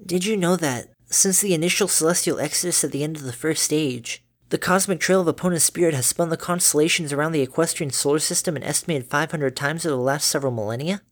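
a touch of a studious filly; polite daughter voice. Acted. Dinky voiced.

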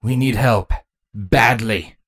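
blunt, understated captain. Acted. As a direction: say it plainly, without cushioning. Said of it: "Cardis bluntly said".

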